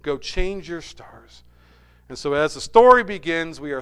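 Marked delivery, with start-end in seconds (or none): 0.0-1.4 slow, change pressed with a falling end; stress on change. Shown as a demonstration. Preacher driving the point home, stressing change. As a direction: linger on change, then let it fall. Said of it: "In other words".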